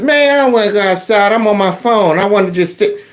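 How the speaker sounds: mock sulky kid, lightly voiced; a touch of teenage whine; whiny student. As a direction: complain like a bored teen.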